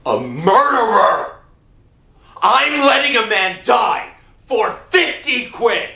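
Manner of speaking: anguished outburst. Acted. Joe cries out his guilt to his wife. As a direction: burst out in horror at yourself.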